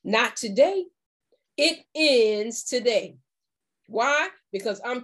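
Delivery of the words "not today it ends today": firm resolve. Shown as a demonstration. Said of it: "you're gonna let them know".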